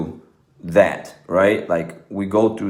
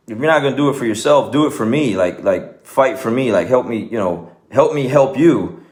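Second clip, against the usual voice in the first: raised-pitch imitated pleading; insistent, higher-pitched retold appeal; retold urgent plea; 4 semitones higher than usual. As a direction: urge them on as the kid would. Retold kid urging horse to fight.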